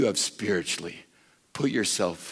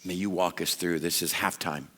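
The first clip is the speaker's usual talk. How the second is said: closing prayer. Acted.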